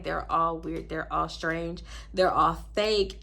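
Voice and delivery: low, mildly irritated grumble. Retold or imitated. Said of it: "how irritated I was".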